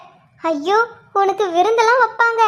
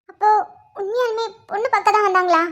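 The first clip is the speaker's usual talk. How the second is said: tearful. Acted. Sister asking whether the bride-viewing really happened, tearfully. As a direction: ask it on the edge of crying. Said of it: "என்ன அழுகுறா?".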